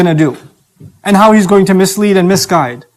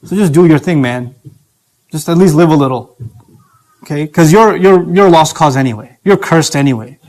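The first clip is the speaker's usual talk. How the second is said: lower, lazy devil's coaxing; a lightly voiced tempter urging you to give up; tempting devil voice; 4 semitones lower than usual. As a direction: drop low and lure them, careless. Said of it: "Or he'll come and tell you".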